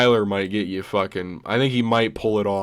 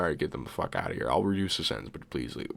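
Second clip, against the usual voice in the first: much lower and softer, fading to a whisper; exhausted judge; 9 semitones lower, 11 dB quieter, much faster than usual. Retold or imitated. Judge dismissing Chandler's rambling, trailing into a whisper. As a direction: wave them off, too tired to care. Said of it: "the judge will be like".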